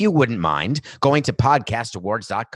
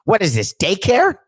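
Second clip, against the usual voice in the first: exasperated disbelief; 3 semitones higher, 5 dB louder than usual. Retold or imitated. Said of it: "I was thinking to myself".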